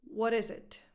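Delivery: IS stressed as the main word. Shown as a demonstration. Coach presenting a similar example, IS stressed. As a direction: put the weight on "is". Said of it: "The stress in this question goes again on the verb".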